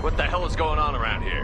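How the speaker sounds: alarmed shout. Acted. Confused amid the collapse.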